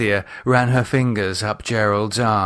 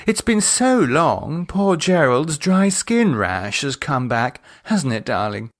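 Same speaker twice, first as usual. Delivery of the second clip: teasing Cynthia; 5 semitones higher than usual. Acted. Cynthia teasing her husband about his rash, sly. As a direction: tease him fondly.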